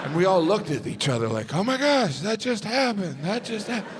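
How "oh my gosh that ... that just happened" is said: high, breathless shock; stunned disbelief. Retold or imitated. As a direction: stare at each other, stunned. Stunned reaction after the bear.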